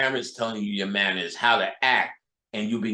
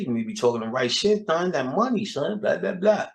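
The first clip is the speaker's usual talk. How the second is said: New York hustler. Retold or imitated. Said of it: "a bunch of thuns and sons".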